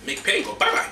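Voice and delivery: a breathy private murmur; whispered. Real, not acted. Host whispers to his bottle to make the pain go.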